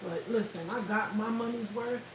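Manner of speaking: quietly mocking Cassie gloating; smug and low, rubbing it in. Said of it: "Cassie like".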